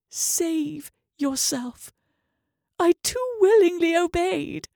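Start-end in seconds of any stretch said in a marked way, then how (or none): 0.1-1.9 slow final words. Acted. Dying man's final words.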